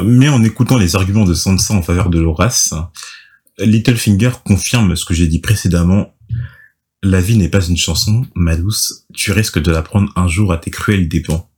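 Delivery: measured storytelling read; scripted recap narration. A narrator's reading. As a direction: read the recap aloud with deliberate phrasing.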